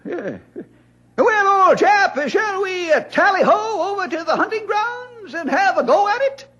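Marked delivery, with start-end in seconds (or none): 1.2-6.5 a put-on British gent, boisterous; mock British accent. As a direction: play the toff, tally-ho and all. Old-timer mimics British friend.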